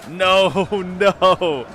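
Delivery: loud disbelieving no with a laugh; exasperated shout. Real, not acted. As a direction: yell no as he slips away. Enemy lord escaping.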